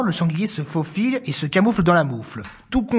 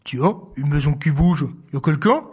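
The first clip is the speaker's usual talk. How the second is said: a huge voice calling; big bear voice; 4 semitones lower than usual. Acted. Bear calling into the mitten, a touch lower. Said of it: "énormes voix".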